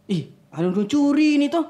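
retold crying child. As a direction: imitate a tearful complaint, pitch climbing. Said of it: "Dia menangis". (tiruan ringan anak menangis)

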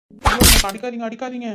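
startled plea. Acted. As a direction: cry out as if just struck. Acted cry on being hit.

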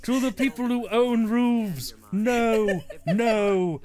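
lightly voiced political speech, slow opening; measured mock oratory with separated refusals; Thatcher. Commentator mimicking Thatcher's roof repossession speech, mock oratory. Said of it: "Everyone remembers Thatcher's famous roof repossession speech".

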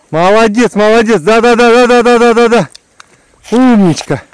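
high, loud praise for a dog; squeaky praising a dog. Real, not acted. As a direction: gush over a good dog. Dog brings bird back.

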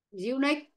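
"unique" stressed on its last syllable; stress on final syllable. Shown as a demonstration. Teacher repeats an example for pupils, final-syllable stress on "unique". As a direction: let the pitch rise onto the end of "unique". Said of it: "Trọng ấm sẽ rơi ngay những cái ấm này luôn".

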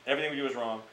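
ordinary delivery

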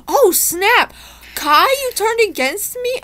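high shocked oh no; shocked betrayal. Real, not acted. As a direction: cry out in shocked disbelief. Betrayed in the vote.

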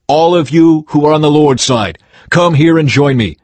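rally them to your side; shouting. A narrator's reading.

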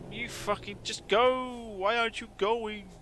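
high, slow, exasperated foreign-sounding yell at a stopped car; hammed-up odd-accented driver shouting to go; mock angry driver. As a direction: bark it out like an impatient driver stuck behind someone. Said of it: "I don't know what the hell that voice was".

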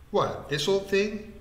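high, drawn-out mock surprise; amused cry. A narrator's reading. Vikram cries out about his shirt, amused and high. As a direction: exclaim it slowly, pitched well up. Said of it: "he cried, laughing with me".

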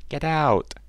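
loud, high duckling jeers; shrieky storybook chorus of ducklings; quacked shouting. A narrator's reading. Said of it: "All of them started to quack".

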